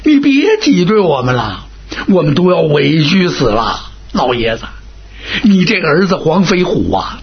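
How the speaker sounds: put-on a wronged general complaining to the old marshal; aggrieved, wheedling complaint; lightly voiced sly general playing the victim; Huang Ming pleading.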